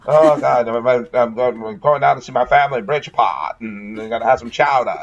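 lightly hammed-up New England accent; a hint of a cartoon New England accent; mock New England accent. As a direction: play a chowder-loving New Englander, mildly. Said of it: "none of us sound like Kennedys".

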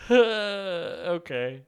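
ordinary delivery

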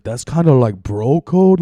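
slow, high put-on accent, imitating the castmate; mock African accent. Retelling a reality show castmate, in a mock African accent. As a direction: ham up an African accent on the slang. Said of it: "I feel like I'm doing a pizza guy voice for an African here".

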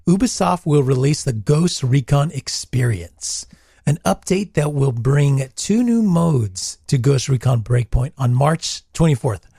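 fading, strained voice going hoarse; voice giving out. Real, not acted. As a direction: read on as the voice gives out. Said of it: "My voice is disappearing".

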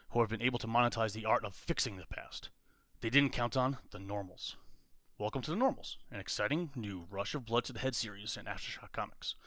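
punchy promo read; pitch voice. Acted. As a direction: sell it like a comic blurb. Pitching a fake comic series.

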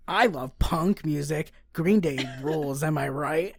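hammed-up fan seeking agreement; poser punk fan. Host mocking Green Day fans, as a poser.

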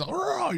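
high-pitched imitation roar; imitated battle roar. Fan retelling Gandalf's charge over the hill, mock roar. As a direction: roar like a wizard charging downhill. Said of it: "he's got, he's".

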